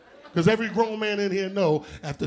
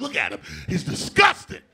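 mock gossip shout; 4 dB louder than usual. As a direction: sneer it like club gossip. Mocking club gossip.

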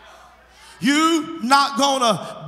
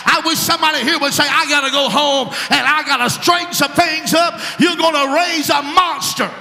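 preaching at full force; 2 semitones higher than usual. Acted. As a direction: drive the point home like a pulpit preacher.

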